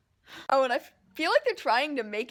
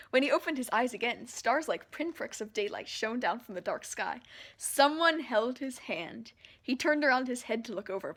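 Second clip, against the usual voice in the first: reading aloud; 2 semitones lower than usual. Acted. Fan reading the novel's passage to viewers, calm narration. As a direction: read the passage evenly.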